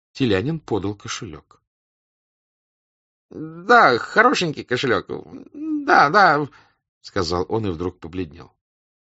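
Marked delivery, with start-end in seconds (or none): 3.3-6.5 high, falsely light chatter; nervous officer. Acted. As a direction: bluff it high and bright. Telyanin nervously bluffing.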